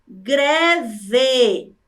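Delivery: "greve" said slowly in two beats; careful word presentation. Shown as a demonstration. Teacher introducing the next word, said slowly. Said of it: "a palavra".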